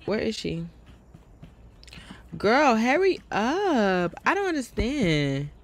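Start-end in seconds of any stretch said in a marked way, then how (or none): 2.4-5.5 slow, drawn-out impatient call. Real, not acted. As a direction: hurry her along, dragging the words.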